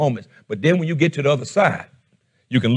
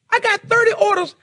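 laughing. Real, not acted. Laughing at his own story.

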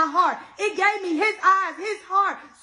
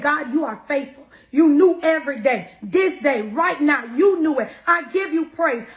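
retold tearful praise; 3 semitones lower, 4 dB louder than usual. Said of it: "I went into a whole praise with tears".

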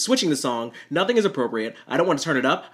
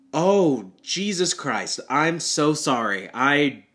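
shocked sympathy; 3 semitones higher, much slower than usual. Retold or imitated. Shocked reply to tragic news.

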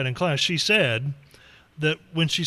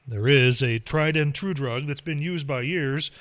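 steady newscaster reading; news read. Acted. Reads news segment.

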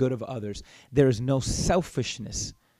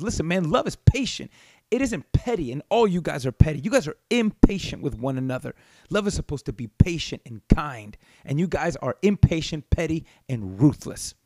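a fairly fierce scolding, pitched up; ferocious Paul. Retold or imitated. Paul rebuking the petty Corinthian church, fierce. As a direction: scold the church like an exasperated apostle. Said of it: "the way Paul would have probably read this and said it out loud".

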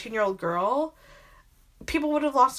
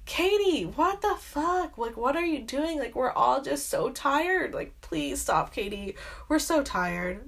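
high, slow, fed-up plea that sinks to a tired near-whisper; the whole world begging Katie to stop, exhausted; weary exasperation; 3 semitones higher than usual. Retold or imitated. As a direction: beg her to stop, worn out. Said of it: "Everyone's watching, like".

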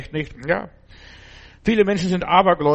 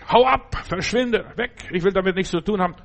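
mock rebuke; 5 semitones higher than usual. Telling Satan to get lost, a hammed-up rebuke. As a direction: shoo the devil off, half-acted.

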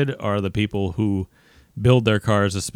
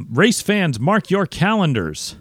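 promo voice. Pretend. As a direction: sell the race like a big promo. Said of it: "I'm just doing my promo voice".

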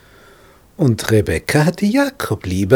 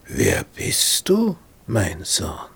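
suspicious Isaac; much slower than usual. Retold or imitated. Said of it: "was kommt als erste Frage".

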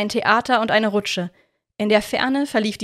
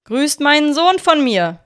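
booming, slow, higher farewell call; echoing call; 6 semitones higher, 6 dB louder than usual. A narrator's reading. Wizard calling after the vanishing children, echoing slow shout. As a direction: call out so it rings and echoes. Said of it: "die hallende Stimme des Zauberers".

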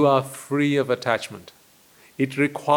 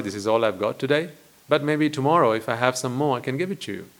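gentle apology. Pretend. Gentle apology to the ungrateful man.

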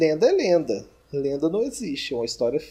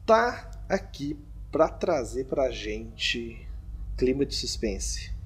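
slow, halting presenter delivery; suspense build-up; 2 semitones lower, much slower than usual. Acted. Host bringing a climate of suspense, slow dramatic pauses. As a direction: hold each phrase back for suspense. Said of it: "tá tocando uma trilha de suspense".

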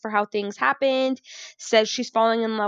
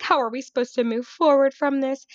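dramatic; 4 semitones higher than usual. Retold or imitated. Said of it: "in the most dramatic way".

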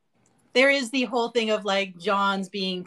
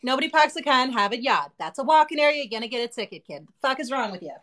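Boston rant. Retold or imitated. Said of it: "I have a whole ass response".

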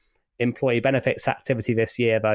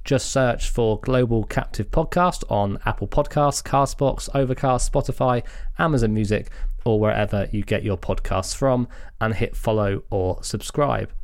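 measured, scripted announcer delivery; polished host reading a promo; podcast promo read. Acted. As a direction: read out the subscribe plug, unhurried and clear.

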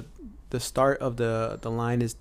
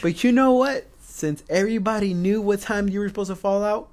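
mock drill instructor; 7 semitones higher, 4 dB louder than usual. Drill instructor interrogating the flight.

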